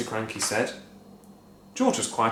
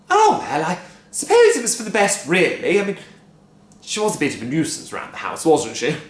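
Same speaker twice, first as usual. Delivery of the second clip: higher, light dismissal; shrugging wife; 6 semitones higher, 6 dB louder than usual. A narrator's reading. Wife shrugging off Grandma's loss, light and high. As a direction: brush it off.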